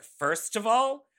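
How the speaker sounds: indignant retort. Retold or imitated. Retorts to rude message about career.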